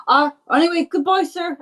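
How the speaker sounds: high-pitched, awkward character farewell; hasty polite goodbye. Acted. Paul hurriedly takes his leave.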